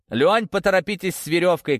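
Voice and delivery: calling up. A narrator's reading. Narrator urges Лёня from down in the pit, mild shout. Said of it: "крикнул я наверх".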